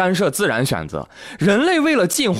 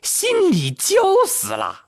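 scolding grandma; 4 semitones higher than usual. Retold or imitated. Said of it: "奶奶就上来了".

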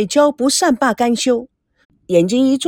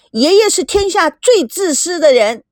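put-on high, moderately raised girlish outcry; shouting; 7 semitones higher, 3 dB louder than usual. A narrator's reading. Girl accusing grandfather of selfishness, shouting out. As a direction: hurl the accusation, voice pitched up. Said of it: "大声地喊".

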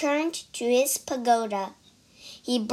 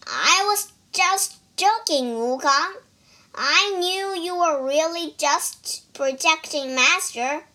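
nervous pig voice; 4 semitones higher than usual. Acted. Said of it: "Bajie forced a laugh".

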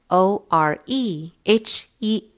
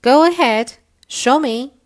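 warm beaming sun voice; 6 semitones higher, 7 dB louder than usual. Acted. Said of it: "said the sun".

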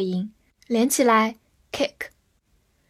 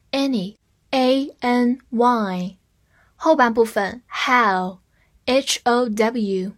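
slow letter-by-letter spelling; much slower than usual. Shown as a demonstration. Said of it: "这个词我们分两部分记".

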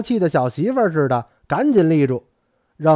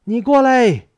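higher-pitched summoning shout, moderate force; raised voice, high and insistent; loud call; 7 semitones higher, 3 dB louder than usual. A narrator's reading. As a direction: call someone over urgently. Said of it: "他喊的声音是那么大".

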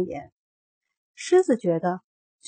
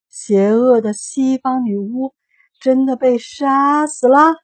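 trembling voice; 4 semitones higher, 8 dB louder, slower than usual. A narrator's reading. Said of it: "那声音颤抖地问".

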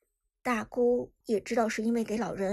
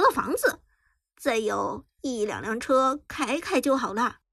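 boastful aunt; 5 dB louder than usual. Acted. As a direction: show off cheerfully to everyone. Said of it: "谈笑风生地说".

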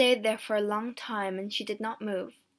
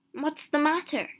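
higher-pitched worried wondering; puzzled thought; 5 semitones higher, 3 dB louder than usual. A narrator's reading. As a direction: wonder anxiously to yourself. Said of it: "he thought".

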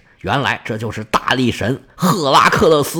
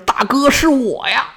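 much higher, eager call; calling out gladly; 8 semitones higher than usual. Acted. Theseus calls out to his rescuer, much higher joyful cry. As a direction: cry out to a friend who came to save you. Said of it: "赶紧叫了一声".

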